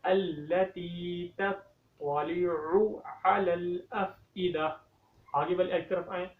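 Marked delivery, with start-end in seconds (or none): 0.0-4.6 very slow, careful tajweed recitation; correct recitation. Shown as a demonstration. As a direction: recite the whole verse correctly. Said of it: "अब इस आयत को दोबारा से पढ़ें". (सही तजवीद के साथ धीमी तिलावत)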